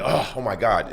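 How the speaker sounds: imitating an exasperated wife; mildly frustrated. Wife fed up with husband's answer, mild frustration. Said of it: "She's frustrated. She's like".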